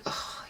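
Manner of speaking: exasperated breathy ugh; soft tired groan; weary ugh. Retold or imitated. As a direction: sigh it out, fed up. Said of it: "rolling his eyes".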